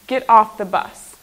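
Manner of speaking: brisk order with a falling end; firm command. Shown as a demonstration. Teacher shows the class what a command is, firm command. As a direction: issue a firm order, hitting it loud. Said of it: "you're giving a command".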